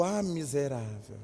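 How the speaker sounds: soft laughing exclamation; amused, affectionate mock insult through laughter. Real, not acted. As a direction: laugh out the recognition quietly. Recognising the friend by her gold tooth.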